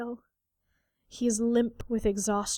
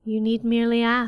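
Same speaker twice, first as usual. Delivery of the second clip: a hint of a deep, melodious fae queen; lightly voiced, melodious faerie queen; 5 dB louder than usual. A narrator's reading. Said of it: "a deep and melodious voice says".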